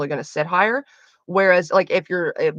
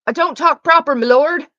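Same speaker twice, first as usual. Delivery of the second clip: higher, louder put-on servant girl voice; jokey commoner's apology to a lord; mock low-born girl; 8 semitones higher, 8 dB louder than usual. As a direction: play the lowly maid, joking at herself. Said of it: "Fuck, I can't talk".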